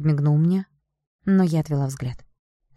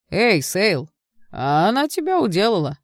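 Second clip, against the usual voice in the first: higher, louder gleeful taunt; gloating jeer; 5 semitones higher, 4 dB louder than usual. Acted. Friend gloats to Sale that the girl beat him, gleeful and loud. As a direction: crow it at your humiliated friend.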